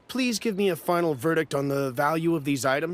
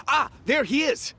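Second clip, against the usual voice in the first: calling out; 9 semitones higher than usual. Acted. Calling out as the expert arrives.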